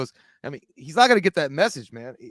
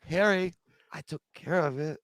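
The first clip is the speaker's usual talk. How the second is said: mock reassuring character; 3 semitones higher, 3 dB quieter than usual. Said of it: "He goes".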